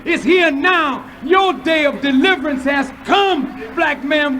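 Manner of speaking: shouted warning of war and doom; fiery preaching. Acted. Preacher rousing the black man to deliverance, shouting. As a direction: build it up, shouting to the congregation.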